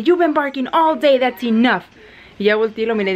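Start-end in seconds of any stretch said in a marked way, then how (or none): 0.0-1.8 high, slow exasperated mock telling-off; retold scolding. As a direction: lay down the law to noisy dogs, retold. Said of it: "los empecé a regañar". (regaño lento y exasperado, imitado)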